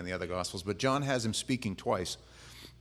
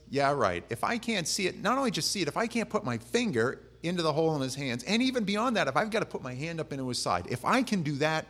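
higher, emphatic list of conditions; doubting insistence; 5 semitones higher than usual. Acted. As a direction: pile up demands, unconvinced. Acting out doubting Thomas's demand.

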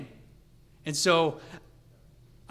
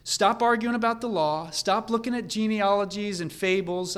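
higher, louder impatient exhortation; worked up; 4 semitones higher, 5 dB louder than usual. Acted. Preacher acting Paul exhorting against side arguments, worked up. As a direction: urge them to stop, raised voice. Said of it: "Paul is getting worked up here".

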